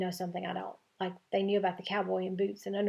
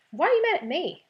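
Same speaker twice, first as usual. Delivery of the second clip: much higher and louder, wounded; hurt surprise; 10 semitones higher, 6 dB louder than usual. A narrator's reading. Hurt girl asks her friend why he's angry, high and loud. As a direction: cry out, stung by the insult. Shocked reply to Ben's snap.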